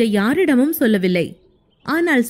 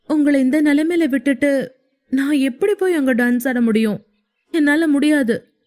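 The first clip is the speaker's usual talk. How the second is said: put-on higher girlish voice, distressed; wife refusing to leave her sick husband; pleading young woman; 4 semitones higher than usual. Heroine voiced by narrator. (உயர்ந்த குரலில் தவிப்பு)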